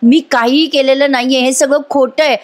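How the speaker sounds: retold outcry. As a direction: protest insistently to the judge, like a retold shout. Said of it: "साक्षी जोरात ओरडते".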